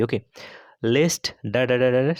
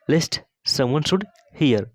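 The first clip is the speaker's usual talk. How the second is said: slow dictation; 3 semitones higher, much slower than usual. Shown as a demonstration. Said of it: "teacher models English sentence slowly".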